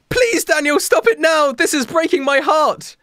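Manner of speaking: high-pitched, hammed-up begging shout; mock shouting plea. Friends beg Daniel to stop, shouting high. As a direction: shout it in overdone desperation. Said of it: "Everyone shouts at me in unison".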